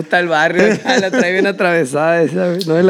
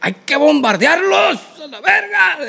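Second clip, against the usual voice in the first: hawkish general; 6 semitones higher than usual. Retold or imitated. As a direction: push for bombing, worked up.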